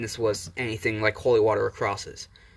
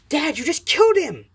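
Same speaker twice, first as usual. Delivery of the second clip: much higher, louder horrified yell; panicked shout; 7 dB louder than usual. Acted. Todoroki screaming at her dad over Izuku's body, horrified. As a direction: scream it at your father in horror.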